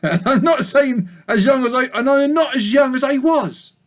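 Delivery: high sheep voice with a slip of laughter; old ewe sighing about age; old ewe, self-pitying. Acted.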